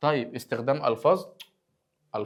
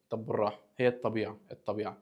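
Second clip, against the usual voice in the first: mock calm; 2 semitones lower, 5 dB quieter than usual. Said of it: "بكل هدوء".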